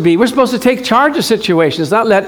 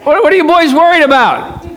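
playful Jesus; 8 semitones higher, 3 dB louder than usual. Acted. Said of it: "we're gonna enact this".

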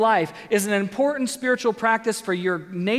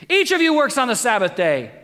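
louder, higher, like an exclamation point; exclaiming; 4 semitones higher, 5 dB louder than usual. Retold or imitated. Pastor reading Jesus scolding the leader, loud and exclaimed. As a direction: read it as a loud rebuke. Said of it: "Exclamation point".

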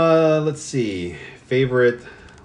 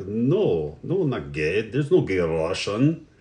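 lightly voiced fake Russian accent, slow at the end; a hint of a joke Russian accent, quoting the character; slower than usual. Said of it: "That's a pretty good Russian voice".

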